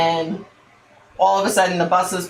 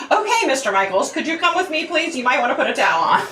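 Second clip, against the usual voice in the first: laughing; 7 semitones higher than usual. Retold or imitated. Embarrassed, laughing at naked star.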